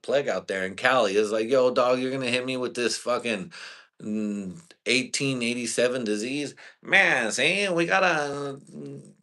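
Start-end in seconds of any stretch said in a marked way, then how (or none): 1.5-6.6 mock incredulous retort. 6.8-9.1 high, loud hammed-up character voice; high loud put-on voice.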